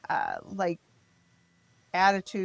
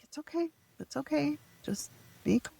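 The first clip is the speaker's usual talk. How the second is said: high, softer, easygoing reassurance; mock laid-back calm; 8 semitones higher, 4 dB quieter than usual. Laid-back lawyer calming frazzled parents, lightly voiced. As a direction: lightly play a relaxed lawyer brushing off worry. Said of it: "just so laid back and relaxed".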